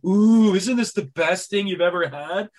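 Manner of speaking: high, loud mock-ecstatic gushing; freaking out. Diners raving over tiny fancy plates, imitated freak-out. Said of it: "freaking out".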